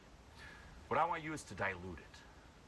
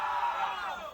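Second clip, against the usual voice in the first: very high, loud, sustained scream; all-out open-throated yell; full scream; 5 dB louder than usual. Shown as a demonstration. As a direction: scream beyond yourself. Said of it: "scream beyond yourself".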